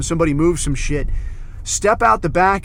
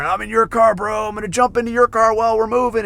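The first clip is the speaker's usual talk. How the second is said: higher-pitched mock bravado; playful hollering; 6 semitones higher than usual. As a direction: goof around as a daring buddy. Acts out guys goofing between cars.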